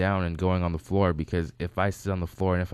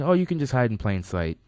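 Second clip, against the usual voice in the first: lightly voiced, higher-pitched wife; breezy higher-pitched quote; imitated wife; 6 semitones higher, 4 dB louder than usual. Wife answers where he should hide, lightly imitated.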